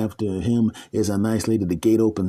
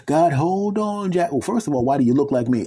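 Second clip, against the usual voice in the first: baffled man; 6 semitones higher than usual. Acted. Man questioning God, baffled. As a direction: stall and question.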